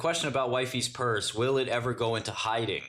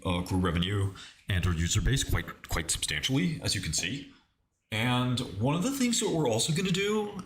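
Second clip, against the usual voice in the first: lightly voiced corporate CEO, hesitant; CEO impression. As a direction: play a halting tech CEO on an earnings call. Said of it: "I have to learn how to do a Tim Cook voice".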